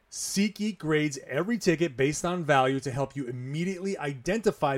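upbeat sponsor read, punchy; energetic host-read commercial. Acted. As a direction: sell it like a podcast ad.

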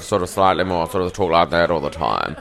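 lightly put-on South Australian accent; a loose South Australian impression. Shown as a demonstration. Comic demonstrating the local accent, light South Australian accent. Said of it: "South Australia".

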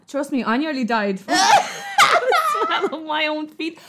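high, loud laughing shout; real laughter at own story. Real, not acted. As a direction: laugh your way through it. Laughing while telling.

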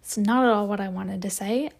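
whispered through a burp; excusing a burp, hushed. Real, not acted. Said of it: "as I'm burping".

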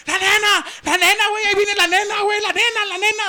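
high, loud frantic yelling; panicked shout. Retold or imitated. Kid warns the class the teacher is coming, frantic high shout. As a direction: yell the warning in a panic. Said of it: "se mete gritando".

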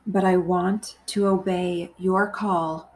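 measured meditation voice, phrase by phrase; guided prayer. Acted. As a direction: pray gently and deliberately, leaving long pauses to repeat.

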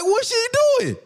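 high incredulous mock yell, "What's she doing?"; mock disbelief. Streamer mocking a boxer's ranking, high disbelieving yell. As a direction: squeal it out in fake shock. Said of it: "I'm like".

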